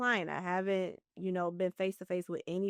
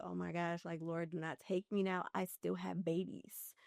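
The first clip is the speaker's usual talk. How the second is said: hushed plea; 6 dB quieter than usual. Retold or imitated. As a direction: quietly beg the Lord not to take you. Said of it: "I looked to the sky and I said".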